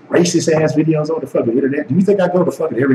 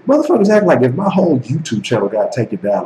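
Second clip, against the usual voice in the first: ordinary talk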